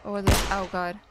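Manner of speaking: loud frightened exclamation; startled. Real, not acted. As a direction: jump and cry out. Startled in horror game.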